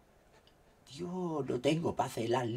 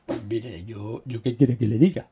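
louder put-on lady voice; mock woman's voice; 12 dB louder than usual. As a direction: play the offended lady. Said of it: "¿Voz de, de mujer?".

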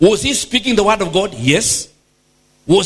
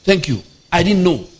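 low-pitched imitation of humble thanks; mock gratitude; 6 semitones lower than usual. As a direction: act out a grateful disciple, voice dropped. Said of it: "will be grateful and say".

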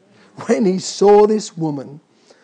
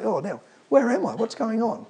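dazed Adam; 4 semitones higher, 5 dB quieter than usual. Retold or imitated. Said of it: "Dear old Adam ... say".

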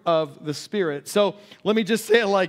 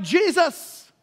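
high-pitched panicked cry for help; freaking out; 10 semitones higher than usual. Retold or imitated. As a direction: imitate disciples in a panic. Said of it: "the disciples are freaking out".

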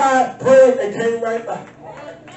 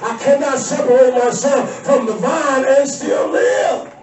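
fervent resolve; 2 semitones higher than usual. Acted. Voiced resolve, shouted.

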